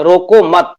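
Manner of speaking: रोको मत joined as one phrase, falling on मत; pause after मत. Shown as a demonstration. Teacher shows the second line, pause after मत. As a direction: run रोको into मत, then break. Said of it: "मत के बाद कॉमा है".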